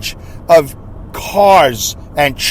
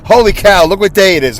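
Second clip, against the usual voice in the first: mock exclaim like a podcaster; imitating podcasters; 4 semitones higher than usual. Host mocking podcasters' catchphrase, exclaiming Holy cow. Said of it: "as all the podcasters like to say".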